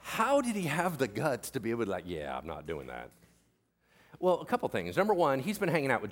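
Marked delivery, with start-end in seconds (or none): 2.0-3.1 low, quiet, dismissive no; offhand refusal. Acted. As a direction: decline coolly under your breath. Retelling Peter's nerve in refusing.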